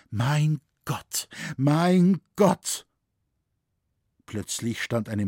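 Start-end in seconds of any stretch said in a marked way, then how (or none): 0.1-2.9 acted cry of despair, high and mounting; sobbing. A narrator's reading. Lying on the ground she calls to God, despairing cry. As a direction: call out higher and louder the second time. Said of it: "vor lauter Schluchzen hörte man nichts als".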